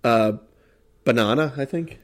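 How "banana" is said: "banana" with an Australian broad "ah"; tentative Australian try at "bah-NAH-na"; Australian accent. Shown as a demonstration. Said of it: "banana in Australian".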